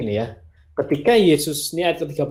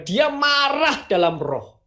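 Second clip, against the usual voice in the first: higher, slow, weighing each word; emphatic reveal; 13 semitones higher, slower than usual. Shown as a demonstration. Preacher revealing the Greek meaning, slow and emphatic. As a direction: land the surprising meaning slowly.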